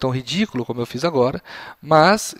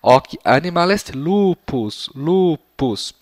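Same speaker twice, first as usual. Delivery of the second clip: slow answer, repeating lupus; slow model answer; much slower than usual. Shown as a demonstration. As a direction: say it slowly and repeat the key word. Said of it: "vocês completem".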